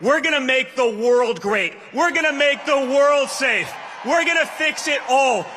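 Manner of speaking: rousing shouted call to vote; rally speech. Acted. Rally climax urging crowd to vote.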